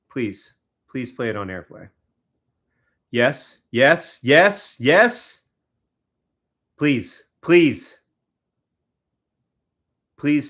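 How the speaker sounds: will it to work; eager pleading. Real, not acted. Willing the TV to play the game, eager pleading.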